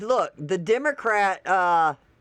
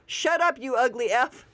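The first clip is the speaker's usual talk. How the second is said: higher mocking snap of shut up; mock snarl; 5 semitones higher than usual. Quoting the Democrats' reply to Stephen Miller, mocking. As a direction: spit the insult out in mockery. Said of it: "And then, boom!".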